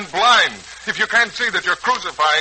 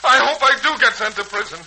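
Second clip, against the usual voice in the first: steady start building to high, louder anguished cry; rising despair; 11 semitones higher, 3 dB louder than usual. Acted. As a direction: spiral upward into anguish. Son begs to be punished.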